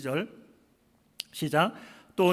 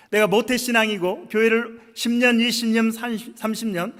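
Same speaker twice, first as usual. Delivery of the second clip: higher, insistent mock protest to God; acted complaint; 4 semitones higher, 4 dB louder than usual. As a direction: list your grievances like an aggrieved believer. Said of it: "불평을 하고 있는 거죠". (하소연하듯 높은 톤의 불평)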